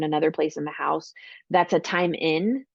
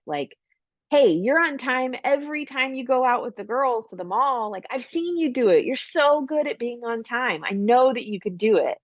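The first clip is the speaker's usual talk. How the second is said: much higher, upbeat reassurance; encouraging parent; 4 semitones higher than usual. Shown as a demonstration. Parent encouraging a tardy teen daughter, upbeat and higher. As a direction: cheer them on sincerely. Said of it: "making them feel like".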